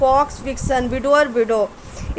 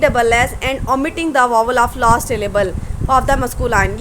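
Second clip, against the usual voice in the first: dictating slowly; much slower than usual. Shown as a demonstration. Teacher dictates the rule heading.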